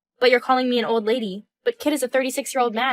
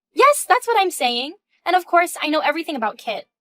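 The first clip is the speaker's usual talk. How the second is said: proudly flaunt it at her; bold and smug; 4 semitones higher than usual. Acted. Mistress boasting to the wife about knowing Kit. Mistress confessing the affair boldly.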